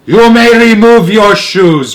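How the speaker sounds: high, loud, slow bark; barked order. A narrator's reading. Grand High Witch barking at the witches, slow and loud. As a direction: bark the command like a harsh drill sergeant. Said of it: "barked the Grand High Witch".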